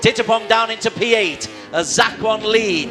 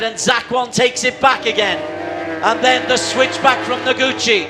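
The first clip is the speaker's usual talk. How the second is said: excited. Real, not acted. Calling the race battle live.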